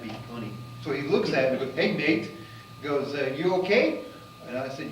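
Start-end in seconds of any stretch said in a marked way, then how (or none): 1.7-2.3 British scientist. Retold or imitated. British scientist joking with teller. 3.4-4.0 British scientist. Retold or imitated. British scientist joking with teller.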